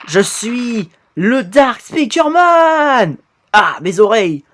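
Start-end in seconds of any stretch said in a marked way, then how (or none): 0.1-3.2 slow boastful villain. Acted. Character announces himself.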